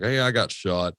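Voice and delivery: casual shrug of a line, said offhand; nonchalant. Retold or imitated. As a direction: toss off "Hey, I got shot" like it's nothing. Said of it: "he said it so nonchalant".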